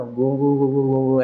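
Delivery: imitated humming drone. Shown as a demonstration. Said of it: "ऐसे करके".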